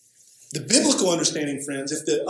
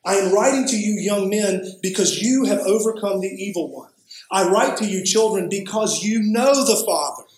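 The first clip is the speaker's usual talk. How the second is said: tag; 4 semitones higher than usual. Real, not acted. Reads the letter aloud emphatically.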